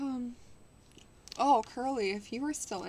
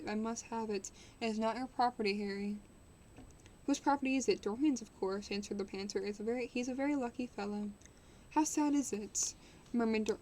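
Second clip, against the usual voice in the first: steady storybook reading voice; story narration. Acted. Streamer reading a classic novel to chat, measured narration. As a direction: read the novel aloud to chat, even and clear.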